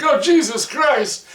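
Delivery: high, loud, drawn-out shriek of shock; startled cry. Retold or imitated. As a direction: jump out of your skin at the rubber face. Astronaut startled by alien mouth.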